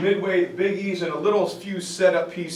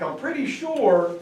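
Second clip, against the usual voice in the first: dry laughing retort; 6 semitones higher than usual. Retold or imitated. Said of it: "He's like".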